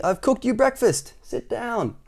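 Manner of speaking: high, upbeat character voice; cheerful cousin. A narrator's reading. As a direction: announce breakfast brightly. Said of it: "said his cousin cheerfully".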